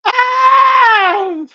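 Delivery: high, squealing laughter through the words; cracking up. Retold or imitated. Reacting to a singing minister, cracking up with high squeals.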